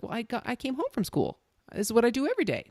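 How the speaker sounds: high-pitched imitation of a young boy; little kid's voice. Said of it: "it was this little kid's voice".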